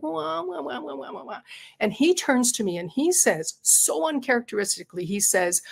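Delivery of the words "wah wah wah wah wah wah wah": high, thin crybaby whine; imitating her own whiny complaining; mock whining. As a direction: whimper it like a sulking child. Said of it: "I start to complain".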